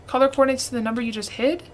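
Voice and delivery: fast, baffled repeat ending on a question; quick puzzled read-back of the hint; puzzled quick echo. Real, not acted. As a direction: rattle it back, confused. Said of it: "repeats it back".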